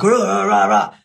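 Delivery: a hint of a booming motivational speaker; lightly hammed-up Tony Robbins roar; Tony Robbins impression. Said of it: "You know Tony Robbins? His voice".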